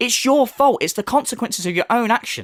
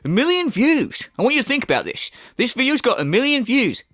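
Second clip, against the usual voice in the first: mocking impression; 4 semitones higher than usual. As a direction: ham up the fake amazement at the view count. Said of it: "watching a video go".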